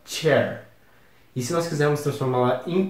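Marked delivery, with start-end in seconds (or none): 0.1-0.6 CHAIR said as an English word; English pronunciation. Shown as a demonstration. Teacher shows students how it is said, English pronunciation of CHAIR. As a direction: demonstrate English CHAIR, opening with a "ch" sound. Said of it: "e se fala".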